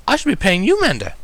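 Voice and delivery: rising toward panic; mildly hysterical lady; a little hysterical. Acted. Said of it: "sounding just a little hysterical".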